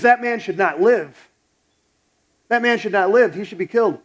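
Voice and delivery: angry king. Retold or imitated. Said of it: "He gets ticked".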